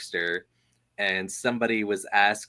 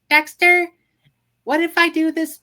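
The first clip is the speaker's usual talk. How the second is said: very high, loud girly cartoon voice; a teasing little sister's squeal; Dee Dee voice; 10 dB louder than usual. Sister teasing Dexter in his lab, very high and playful.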